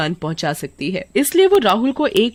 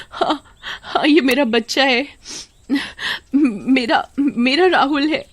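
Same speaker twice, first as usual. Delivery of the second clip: overjoyed mother; 6 semitones higher than usual. Acted. Mother gets child back.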